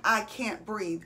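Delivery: soft, weak, airless plea; faint struggling voice. Retold or imitated. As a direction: let it fade as if short of air. Quoting people struggling to breathe.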